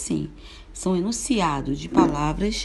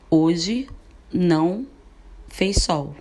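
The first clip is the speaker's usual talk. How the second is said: louder, firm statement with pauses between words; firm declaration; 4 dB louder, much slower than usual. Shown as a demonstration. Teacher demonstrating a declaration, firm and louder. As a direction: declare it firmly, word by word. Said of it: "Se nós falamos assim".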